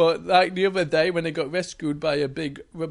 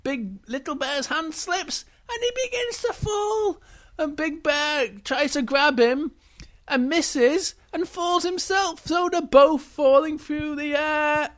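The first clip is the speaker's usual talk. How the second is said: dramatic narration; 10 semitones higher, 4 dB louder than usual. A narrator's reading. Falling scene narrated dramatically.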